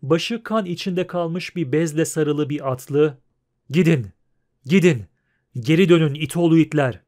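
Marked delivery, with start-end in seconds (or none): 3.7-7.0 loud, forceful order to turn back; shouting. A narrator's reading. Bandaged horseman driving the crowd back, shouting. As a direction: shout them away in short bursts. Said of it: "diye bağırdı".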